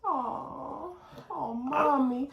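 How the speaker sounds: put-on high, soft child's cooing; little kid feeling sorry for mommy; Noelle. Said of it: "Noelle just so small and cute".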